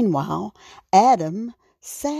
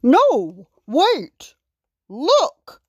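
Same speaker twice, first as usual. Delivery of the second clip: higher, urgent calls in separate bursts; shout; 6 semitones higher, 5 dB louder, much slower than usual. A narrator's reading. King stops the fleeing animals, shouting. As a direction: call out to halt them, pitched up. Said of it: "King Aaron shouted".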